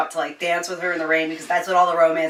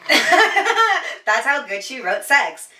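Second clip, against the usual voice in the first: slow, laughing through the words; 8 semitones higher, 6 dB louder, much slower than usual. Real, not acted. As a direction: laugh out the praise. Laughing while praising.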